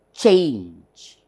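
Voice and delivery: CHANGE as one long falling syllable; demonstrated pronunciation. Shown as a demonstration. Teacher shows a one-syllable word, demonstrated pronunciation. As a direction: stretch "change" out in a single stroke. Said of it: "Observe the pronunciation".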